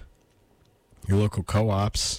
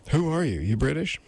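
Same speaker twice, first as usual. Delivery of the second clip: higher-pitched lady character; lady's voice; 7 semitones higher than usual. Acted. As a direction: ask it in a put-on higher female voice. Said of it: "that's the lady saying".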